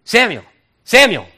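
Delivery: high, loud call of a name. Acted. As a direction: call out Samuel's name from afar. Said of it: "Samuel hears a voice".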